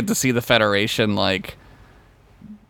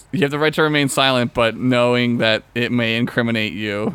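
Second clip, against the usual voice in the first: rushed Miranda rights. Retold or imitated. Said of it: "it was like".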